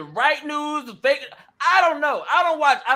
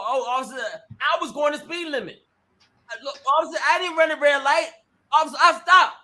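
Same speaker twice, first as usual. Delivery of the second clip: acting crazy with police. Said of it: "don't start acting crazy".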